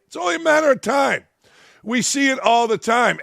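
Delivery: high, fast and heated; high heated repeat. Real, not acted. Ranting about locker rooms, he repeats the warning high and fast.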